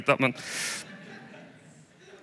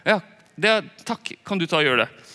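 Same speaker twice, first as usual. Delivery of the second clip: higher, mock-grateful handing off of the job; mock eager thanks; 3 semitones higher than usual. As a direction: imitate someone dumping the task on you. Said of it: "for da ender det opp med liksom å".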